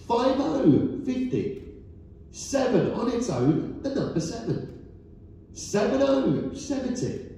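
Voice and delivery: rising call, then number settles down; bingo caller. Acted. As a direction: sing out each number to the hall. Calling bingo numbers to hall.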